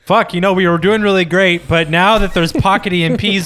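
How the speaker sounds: mock complaint from a ruined business owner; lamenting casino boss. Voicing casino bosses lamenting pocket EMPs.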